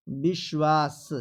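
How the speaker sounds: विश्वास drawn out as "bish-vaas"; slow sh then final s in विश्वास; correct pronunciation. Shown as a demonstration. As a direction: stretch विश्वास to show both sibilants. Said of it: "ऐसा पढ़ेंगे बच्चे".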